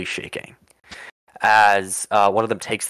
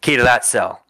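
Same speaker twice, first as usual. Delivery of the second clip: curt order; 4 semitones higher, 5 dB louder than usual. Acted. Mercenary snaps order at guards.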